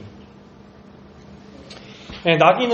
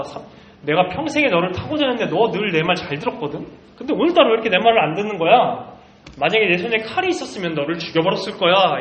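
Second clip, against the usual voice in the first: angry scolding; 3 semitones higher than usual. Acted. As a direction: build from irritated to a heated, quick rant. Balaam scolds his donkey. (점점 화가 나서 빠르게 몰아붙이는 발람)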